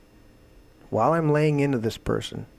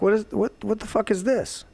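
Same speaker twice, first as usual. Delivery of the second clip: higher, sharp outburst of disbelief; retold angry outburst; 8 semitones higher than usual. Yelling at the girl over the shot-out lights, angry. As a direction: snap at her as if finding the broken glass. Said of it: "and I lit into her".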